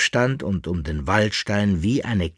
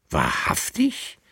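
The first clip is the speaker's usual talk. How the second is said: much higher, slow outraged exclamation; indignant cry; 14 semitones higher than usual. A narrator's reading. The lady hears her servant lied, outraged cry. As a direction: cry out, scandalised. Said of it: "rief die Dame empört".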